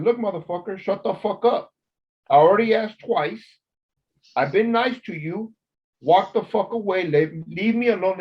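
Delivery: officer to inmate, a heated mock telling-off; angry retort. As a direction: imitate snapping at a pushy inmate. Retold confronting rude inmate.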